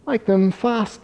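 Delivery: high, snapped cheetah voice; snappy cheetah. A narrator's reading. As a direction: snap it out high. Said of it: "snapped the cheetah".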